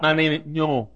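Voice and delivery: Joe saying Joe as No; speech impediment mimicry. Preacher imitating Joe's impediment, mild mock lisp. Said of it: "talk like that".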